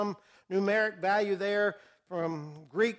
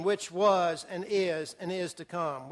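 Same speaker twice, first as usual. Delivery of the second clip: slow repeat; 3 semitones lower, slower than usual. Shown as a demonstration. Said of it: "What does that mean".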